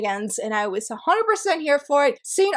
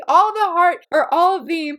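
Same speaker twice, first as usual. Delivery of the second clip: louder, higher, tumbling over the words; so thrilled the words won't come out; gushing excitedly; 3 semitones higher, 4 dB louder than usual. Real, not acted. Gushing to viewers about the romance, breathless excitement. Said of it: "I'm getting so excited, I can't even talk".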